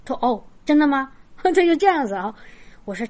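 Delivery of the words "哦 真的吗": a touch of amazed disbelief; mock surprise. The girl is told ghosts are real, a hint of mock surprise. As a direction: lightly imitate her startled reply. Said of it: "然后她就很吃惊".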